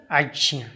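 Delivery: अज्ञ said with a slight nasal ञ before the final vowel; nasal ञ sound. Shown as a demonstration. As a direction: let a little nasal sound through in अज्ञ. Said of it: "नाक से आवाज़ थोड़ी सी निकलेगी". (अज्ञ में ञ की हल्की नाक की आवाज़)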